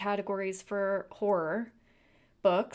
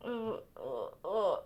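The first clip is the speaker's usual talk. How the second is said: spitting cat hair; 4 dB quieter, slower than usual. Real, not acted. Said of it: "got so much hair in my mouth".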